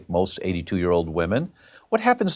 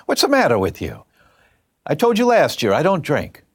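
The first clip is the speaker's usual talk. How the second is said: indignant telling-off, leaping high; imitated scolding; 5 semitones higher than usual. Aunt talking back to her doctor, exasperated. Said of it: "that's how she talked to her doctor".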